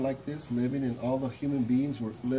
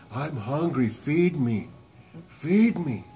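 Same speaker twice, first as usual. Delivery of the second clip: loud, booming monster roar building; monster demanding food; 3 semitones higher, 8 dB louder, slower than usual. Acted. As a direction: boom it out like a hungry giant.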